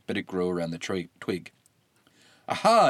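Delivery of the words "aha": high, loud eureka; exclaiming. A narrator's reading. Maon exclaiming as the idea strikes. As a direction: burst out with sudden discovery. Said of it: "exclaimed Maon".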